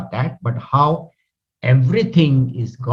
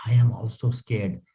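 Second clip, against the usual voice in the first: softly; 5 dB quieter than usual. Shown as a demonstration. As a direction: admit it quietly, almost to yourself. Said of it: "he says softly".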